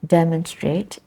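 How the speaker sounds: "Demonstrate" as DEM-on-strate; stress first syllable. Shown as a demonstration. Teacher answers where the stress is, stress first syllable. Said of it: "is in the first syllable".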